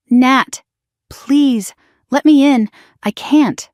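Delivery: a sister begging her sibling at the door to be let in; voice cracking. A narrator's reading. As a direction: plead through the door until the voice gives way. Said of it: "Her voice cracked".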